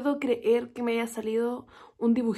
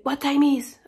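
mock yell, a bit louder; retold yell; 3 semitones higher, 6 dB louder, slower than usual. Drunk stranger at the bus stop yelling at her, mock yell. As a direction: bark the question like the aggressive stranger. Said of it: "pero gritándome".

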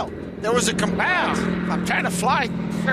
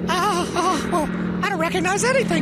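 mock crying pilot; 8 semitones higher than usual. Lost pilot retake, crying heard.

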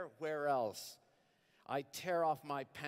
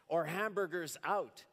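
pleading; 5 semitones higher, 3 dB louder than usual. Acted. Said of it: "she pleads".

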